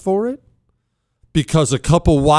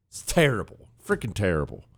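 ordinary talk

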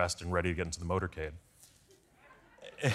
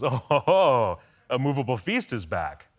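teasing boss; 5 semitones higher, 7 dB louder, slower than usual. Retold or imitated. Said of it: "he goes".

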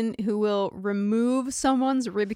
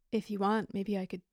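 breathy seductive whisper; 3 semitones lower, 10 dB quieter than usual. Retold or imitated. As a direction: whisper it like a come-on. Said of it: "you reading them to me was worse".

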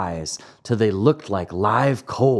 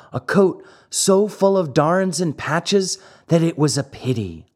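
put-on raised boyish puppet voice, earnest; a wooden boy pleading his poor father's case, higher; Pinocchio voiced; 7 semitones higher than usual. A narrator's reading. Pinocchio telling Fire Eater about his father, in a raised boyish voice.

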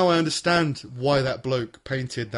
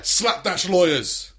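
mock sponsor read; 5 semitones higher, 4 dB louder, much slower than usual.

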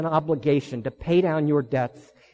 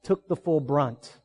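soft, tender storytelling; 3 semitones lower, 4 dB quieter than usual. Real, not acted. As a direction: let it fall quiet and tender.

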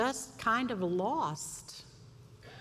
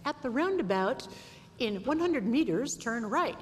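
put-on English accent; 3 semitones higher than usual. Wife mimicking the GPS in English accent. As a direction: do the British GPS lady. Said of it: "in an English accent".

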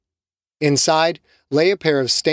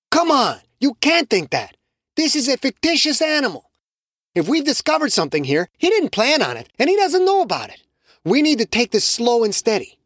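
much higher, pressing voice; insistent Carlos; 10 semitones higher than usual. Acted. Carlos insisting to Shamiqua, higher urgent voice. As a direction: argue him down.

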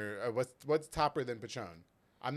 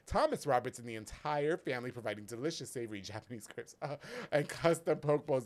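ad read. Acted. Sponsor ad read.

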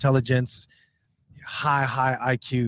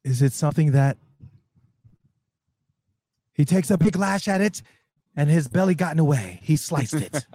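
golf commentator. Pretend. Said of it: "as Q gives the play by play".

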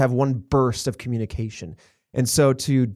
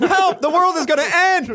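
drive thru speaker; 4 dB louder than usual. Pretend. Ghost calling out of speaker.

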